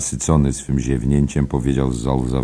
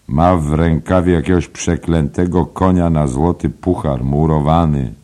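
a lightly raised, confiding pub gossip; gossiping barfly; 4 semitones higher, 6 dB louder than usual. Acted. Nosey Flynn gossiping to Byrne, lightly raised pub voice. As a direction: lean in and spread the rumour. Paddy mocks the drinks he buys.

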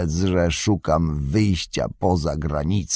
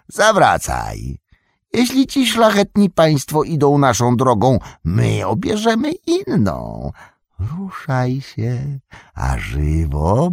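harsh order; 6 semitones higher, 3 dB louder than usual. A narrator's reading. Saruman berates his servant.

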